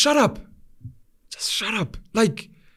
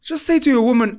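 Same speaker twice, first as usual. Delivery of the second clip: mock scolding; 3 semitones higher than usual. Scolding a cheating friend.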